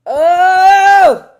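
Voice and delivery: sudden loud high oh; surprised gasp. Acted. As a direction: blurt it out startled. Sudden realisation, alone on hold.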